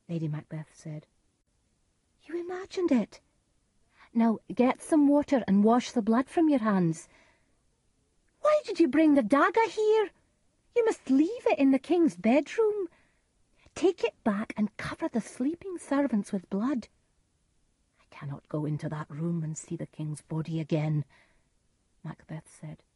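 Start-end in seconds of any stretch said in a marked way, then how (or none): 2.2-16.9 high-pitched, urgent orders to a husband; Lady Macbeth, commanding. Acted. Lady Macbeth orders Macbeth to wash off the blood, commanding. 18.0-21.1 a touch of fear, held in; mildly fearful. Acted. Macbeth refuses to face the king's body, mildly fearful.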